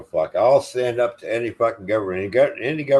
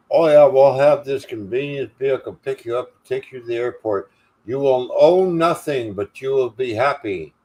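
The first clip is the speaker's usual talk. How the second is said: higher, smug mock-gentle tycoon voice; mocking Charles Schwab; 4 semitones higher, 3 dB louder than usual. Ranting man mocks Charles Schwab, smug higher voice. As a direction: sneer it out like a smug billionaire promising comfort. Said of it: "He talks like he's acting like".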